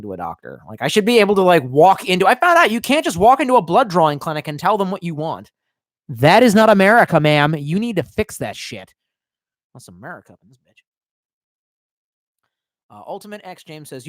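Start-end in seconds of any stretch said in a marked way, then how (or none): 6.1-8.9 mock outrage. Mock indignant rant.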